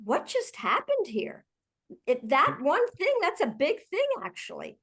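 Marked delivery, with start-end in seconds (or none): 0.0-1.5 light, open curious question. Shown as a demonstration. Leader rethinking a reaction to a colleague, curious. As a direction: ask it with honest curiosity. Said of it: "to, like".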